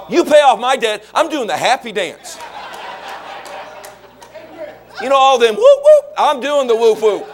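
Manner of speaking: laughing, giddy and high; laughing glee. Acted. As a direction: chuckle through the happy dance. Laughing about happy dance.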